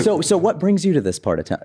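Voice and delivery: put-on high Indian accent, curious question. Comedian as Vivek asks the passerby, high Indian accent. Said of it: "the Indian accent".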